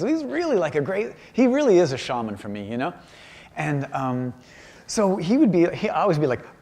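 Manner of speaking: ordinary talk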